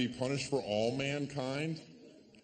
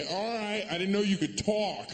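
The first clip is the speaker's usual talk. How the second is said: surprised; 6 semitones higher than usual. Acted. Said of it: "I'd be".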